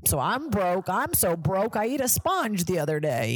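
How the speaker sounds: lightly voiced stand-up complaint bit; hint of a comic doing a broke-guy bit; white male comic. Mocking male comics' opening bits, lightly voiced stand-up. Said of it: "Every white male comic starts being like".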